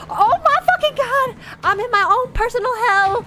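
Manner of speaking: panicking gamer. Real, not acted. Panicking in the game.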